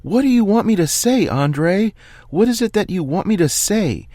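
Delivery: a calm man finally coming apart, yelling at his player; screaming coach. Acted. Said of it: "then starts screaming".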